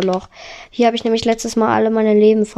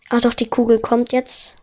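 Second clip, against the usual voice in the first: ordinary talk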